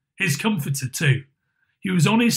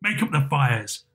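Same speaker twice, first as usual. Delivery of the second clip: hearty Scrooge, lightly voiced; kindly Scrooge; 3 semitones lower than usual. Scrooge promises to help Bob's family, lightly voiced and hearty. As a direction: lightly play the reformed employer, hearty and earnest.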